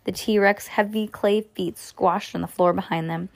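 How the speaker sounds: ordinary delivery, nothing marked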